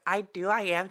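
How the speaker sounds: high chirpy imitation of the girl; mock the girl like a parrot. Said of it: "She sounds like a parrot".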